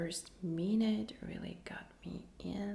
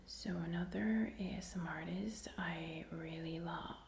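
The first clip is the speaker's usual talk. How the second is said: ASMR whisper; slower than usual. Real, not acted. Whispers her whole ASMR reaction.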